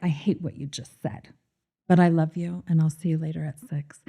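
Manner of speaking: hushed, dropping to a whisper by the end; imitating Beth, going soft and whispery; Beth's soft comeback. Imitating Beth telling her boyfriend Rip, hushed into a whisper. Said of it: "And she would be like".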